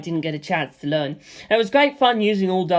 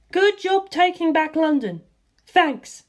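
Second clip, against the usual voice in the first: signal read out; 10 semitones higher, slower than usual. Acted. Morse message read out.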